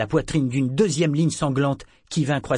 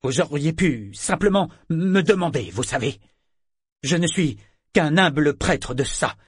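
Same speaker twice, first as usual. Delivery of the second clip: loud, higher halting speech; choppy voice; 6 semitones higher, 5 dB louder than usual. Acted. Wounded priest pleading innocence, choppy. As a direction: break the words into choppy bits. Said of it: "d'une voix singulièrement hachée".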